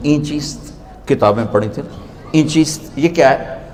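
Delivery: a hint of a simple villager asking softly; innocent question. Shams asking Rumi softly and innocently, with a hint of naivety. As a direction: ask it softly, naively, like a rustic. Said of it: "बड़े भोलपन में कहते हैं".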